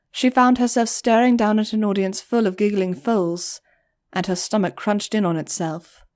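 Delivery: plain reading voice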